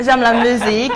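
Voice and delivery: "J'aime la musique" in a light English accent; French words said like an English speaker. Shown as a demonstration. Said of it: "Je reprends avec mon accent anglais".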